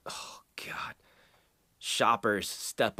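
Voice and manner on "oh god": breathy, near-silent oh God; whispered groan. Real, not acted. Bracing for the next story, whispered groan. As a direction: sigh it out under your breath.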